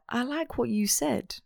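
soft, slightly high Eastern European twang; lightly voiced Eastern European accent. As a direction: imitate a quiet Eastern European scientist. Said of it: "Eastern European twang".

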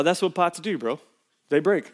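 easygoing shrug of a reply; calm, unbothered. Retold or imitated. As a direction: brush it off gently. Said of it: "said to me very calmly".

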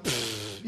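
low, soft scoffing puff; dismissive pfft. Retold or imitated. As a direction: blow it off with a pfft. Acts out dismissive reaction to news.

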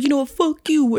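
retold huffy retort, high; re-enacted parting insult. Voicing man's parting insult.

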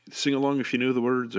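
a lightly attempted Scottish accent; barely Scottish, half-hearted Scottish voice; bad Scottish accent. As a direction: mimic a singer's Scottish accent badly. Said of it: "whatever my shit accent is".

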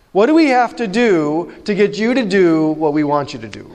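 a hint of a whiny teen pushing back at God; mock-sarcastic teen, lightly voiced; exasperated teenager. Preacher voicing Judah as a teen, lightly mocking. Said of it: "And what they're saying is".

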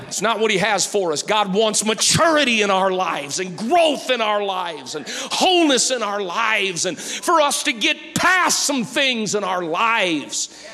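loud, driving sermon delivery; fired-up preacher urging the congregation; full-force preaching. Real, not acted. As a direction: preach it with rising fervor, punching key words.

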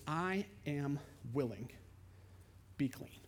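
soft, low and slow; tender reply. Acted. Jesus tenderly answering the leper. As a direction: say it gently, reaching out.

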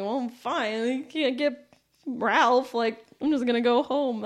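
mildly huffy retold sulk; upset. Retelling her walk home after losing out, mildly upset. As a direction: replay a put-out, drunken grumble lightly. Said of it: "upset 'cause I'm like".

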